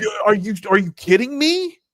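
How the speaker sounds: can't believe the line; incredulous. Real, not acted. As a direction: pitch jumps up in disbelief. Disbelief at the betting line.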